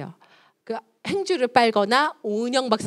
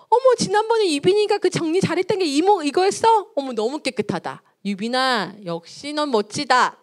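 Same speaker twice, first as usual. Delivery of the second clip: bright, high delighted praise from grandma; 6 semitones higher, 4 dB louder than usual. Acted. Grandma praising the child's tidy shoes, delighted and high. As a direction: gush over the tidy shoes like a proud grandma. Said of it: "할머니 얘기해요".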